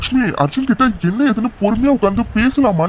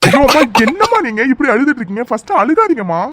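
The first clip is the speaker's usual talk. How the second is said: higher, urgent plea; distressed pleading; 5 semitones higher, 4 dB louder than usual. Acted. Son pleading with his crying mother, distressed. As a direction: beg her anxiously to stop.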